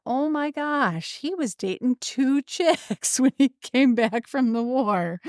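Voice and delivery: high, slow, amazed inner voice with a laugh; stunned, giggling disbelief; shocked realization. Retold or imitated. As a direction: let the surprise dawn slowly, laughing. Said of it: "and I thought".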